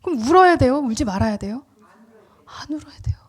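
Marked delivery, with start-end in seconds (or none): 2.5-3.2 hushed whisper of the answer. Real, not acted. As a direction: drop to a breathy secret. Preacher's emphatic whispered answer. (속삭이듯 답하는 목소리)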